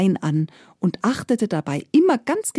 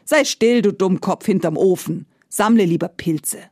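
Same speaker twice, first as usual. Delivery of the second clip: mocking older brother, sharp and cross; angry mocking. Brothers scolding Iwan, angry and mocking. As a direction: snap at the fool by the stove. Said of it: "wurden gleich darauf sehr böse".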